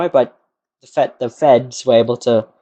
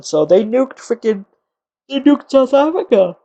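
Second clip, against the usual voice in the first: higher, louder excited telling; 10 semitones higher, 5 dB louder than usual. Real, not acted. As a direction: build up the punchline. Excited punchline.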